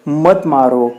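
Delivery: mildly acted cry of pain; a touch of urgent begging; pleading stone. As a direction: plead lightly as the hurting stone. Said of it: "वो पत्थर कहता है कि".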